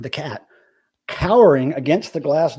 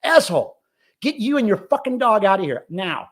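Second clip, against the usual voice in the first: pretend telling off; 5 semitones higher than usual. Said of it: "be like".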